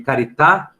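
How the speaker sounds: "carità" in Italian, stress on the final à; Italian pronunciation. Shown as a demonstration. Teacher reading the Italian word to students, Italian pronunciation. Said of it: "no italiano".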